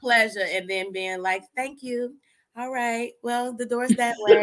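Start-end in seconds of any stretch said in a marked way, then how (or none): 1.6-4.4 mock-polite dismissal, lightly put on; courteous send-off with a touch of laughter; most polite voice. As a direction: politely show someone the door, playfully. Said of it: "with the most polite voice".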